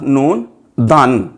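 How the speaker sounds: धन said slowly with aspirated ध; slow spelling. Shown as a demonstration. Teacher spelling धन for students, slow and deliberate. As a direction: spell out the word at dictation speed. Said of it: "दाल को हे के साथ मुरक्कब".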